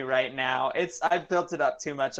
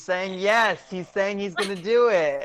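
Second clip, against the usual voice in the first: mock excitement; 5 semitones higher, 4 dB louder than usual. Pretends boyfriend answers gleefully.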